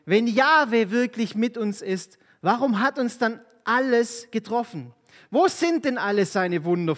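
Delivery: lightly acted Bible reading; scripture reading. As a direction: read the Bible story to the congregation. Reads Bible passage aloud.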